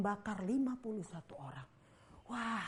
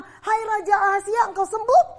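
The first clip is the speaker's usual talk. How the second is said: mock flattering greeting; 9 semitones higher, 12 dB louder than usual. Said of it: "Apakah dia bilang".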